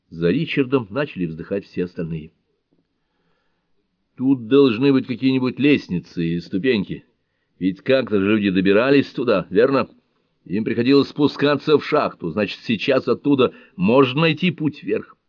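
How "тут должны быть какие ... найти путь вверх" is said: higher, louder, eager persuading; upbeat urging. Acted. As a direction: talk them into it with hope. Фрэнк убеждает спутников. (горячо убеждая, выше и громче)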